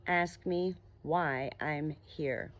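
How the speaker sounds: slow, soft and patient; a patient monster repeating himself slowly; slow gentle repeat. Acted. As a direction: say it again, unhurried and calm. Monster repeats his quiet request.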